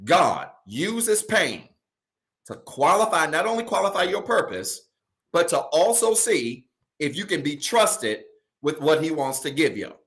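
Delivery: slow, emphatic preaching with pauses between phrases; measured, deliberate preacher's restatement; slow repeat. Shown as a demonstration. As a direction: spell it out slowly, phrase by phrase, so nobody misses it. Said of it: "I wanna say this again slow".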